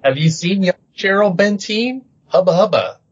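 high leering catcall; leering hubba hubba. Pretend. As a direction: leer like a cartoon wolf. Sorry, I'm stupid now.

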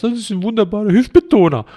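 hammed-up self-praise, mocking; mock proud quote. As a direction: parrot their excuse with mock pride. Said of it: "wo du sagst".

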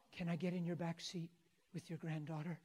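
soft, hushed but voiced request; retold whisper. Preacher retells asking grandma softly, retold whisper. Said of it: "I whispered and said".

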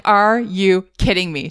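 slow, measured disbelief; incredulous. Retold or imitated. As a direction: spell out your disbelief slowly, without raising your voice. Incredulous first words to the bat.

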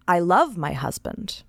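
slow, firm insistence on every word; emphatic. A narrator's reading. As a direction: press I love my husband home, slowly. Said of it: "told herself emphatically".

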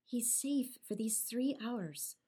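whispered reassurance to Ferdinand; conspiratorial whisper. Acted. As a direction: lean in and whisper the secret. Miranda confides father is away.

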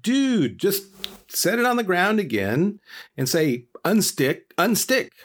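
very high, easygoing dude voice; chill Buddha. Retold or imitated. Buddha telling Koa the unstick trick, in a high dude voice. He's like.

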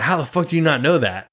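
imitating an angry dad, lightly; a hint of dad yelling, pitch up; half-hearted angry dad shout; mild mock yell. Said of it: "he was so mad at me".

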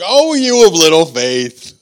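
acted-out slow reproach; mild chiding. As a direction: chide them a little, drawing it out. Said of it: "he kinda chides you a little bit".

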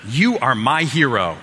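slow, drawn-out swooning wife voice; imagined admiring wife. Pretend. Husband imagining his wife praising him, hammed-up adoring voice. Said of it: "say it in that voice".

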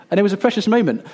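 fond laugh while speaking. Real, not acted. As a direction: let the laugh carry into the words. Recalling daughter's reply fondly.

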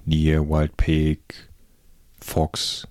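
normal talking voice

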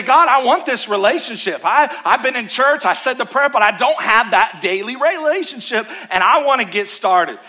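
prayer of beginning. Retold or imitated. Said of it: "and you say".

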